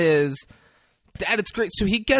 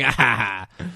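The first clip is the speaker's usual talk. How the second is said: low, half-hearted mock laugh; imitated laugh; 4 semitones lower than usual. Recapping how she laughs in the scene, imitated laugh. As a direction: token "ah, ha, ha" imitating her laugh. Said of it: "just that she laughs".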